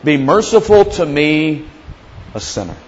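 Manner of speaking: slow, fading cry for mercy; a sinner begging mercy; humble plea. Retold or imitated. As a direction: plead with head bowed. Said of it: "he beats on his chest".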